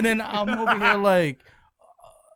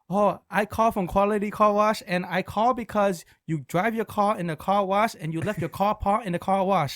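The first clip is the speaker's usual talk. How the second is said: lightly put-on Asian accent; car wash owner in a mock Asian accent; 3 semitones higher than usual. Prank caller posing as car wash owner, mock Asian accent. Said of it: "There's no Asian guy that owns".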